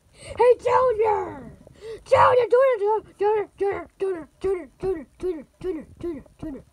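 nagging a sleeping brother to wake up, loud at first and then fading; calling out, fading. Acted. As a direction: start yelling the name, then let it die away.

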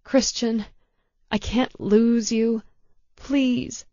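desperate tearful plea; pleading. A narrator's reading. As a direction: beg him not to go. Begging dying lover.

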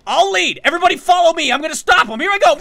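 rallying shout. Acted. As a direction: shout to rally the team into a charge. Leading a charge in game.

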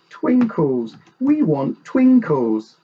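put-on high, slow childish wail; mock crying. A narrator's reading. The Joneses' children losing their cat, mock wailing. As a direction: wail it like upset children, drawn out. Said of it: "They cried".

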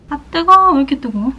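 yelping through a mouthful of hot chicken; mouth full of hot food. Real, not acted. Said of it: "엄청 뜨거워요". (뜨거운 음식을 입에 문 채로)

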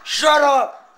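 high, loud accusation; angry shouting. Pretend. Gamer blaming his friend Chris, angry shouting. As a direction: blast the blame at full voice.

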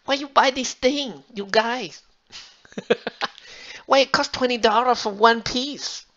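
mock Asian mom grumbling about prices; Asian mom accent. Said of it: "my mom is Asian, so it'd be super funny".

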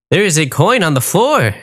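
a grand genie granting wishes. Acted. Genie speaks.

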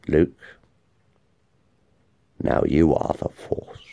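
breathy, unvoiced dying whisper; dying sigh. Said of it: "sighs with his dying breath".

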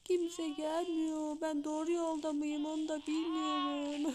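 put-on lost child voice, whimpering through tears; mock crying. Lost baby in the park, pretend crying. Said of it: "Ağlıyorum, ağlıyorum".

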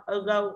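"Ago" stressed on GO; light A, stronger GO in "Ago"; stress on second syllable. Shown as a demonstration. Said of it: "âm âu nhận trọng âm là go". (nhấn âm tiết hai "Ago")

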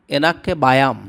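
এনাকে বায়াম, clear "e-na-ke ba-yam"; Tamil phrase modelled. Shown as a demonstration. Teacher showing viewers Tamil for I am afraid, careful pronunciation. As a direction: say এনাকে বায়াম evenly, word by word. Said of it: "আমার ভয় করে".

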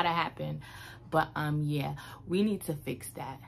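lips around drinking straw; speaking while sipping from cup; talking with straw in mouth. Real, not acted. Seen 1: Holds tumbler, straw between lips while speaking; absent at -2.0 and +3.3.

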